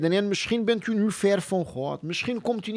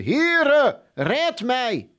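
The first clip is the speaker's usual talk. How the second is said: higher, louder desperate call; cry for help; 6 semitones higher, 3 dB louder, much slower than usual. Acted. Preacher acting sinking Peter's loud, higher plea to the Lord. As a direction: shout it out like a man going under. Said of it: "En hij schreeuwde".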